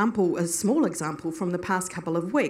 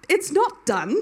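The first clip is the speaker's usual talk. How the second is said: laughing protest; 9 semitones higher, slower than usual. Retold or imitated. Arguing with God, laughing.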